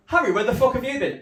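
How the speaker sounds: high, loud demand from a mate; shouted question. Retold or imitated. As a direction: bellow it down the street. Mates shouting at returning friend.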